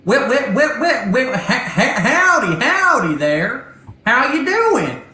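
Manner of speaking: high, loud, stuttering robot voice. Acted. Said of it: "a robotic voice come over and goes".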